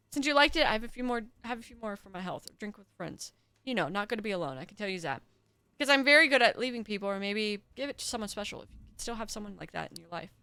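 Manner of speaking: put-on lightly slurred old drunk, gruff; an old drunk rambling over his bottle; drunk old man. Voices drunk old host.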